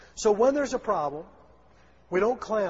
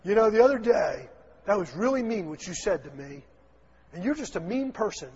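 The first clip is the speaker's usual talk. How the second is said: mock accusation. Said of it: "you won't go in there and say".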